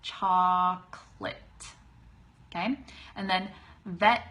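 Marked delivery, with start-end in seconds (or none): 0.0-1.4 chocolate slow as choc-lit; chocolate drawn out, choc-lit; two-syllable chocolate. Shown as a demonstration. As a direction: model chocolate slowly, two beats. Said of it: "but cha".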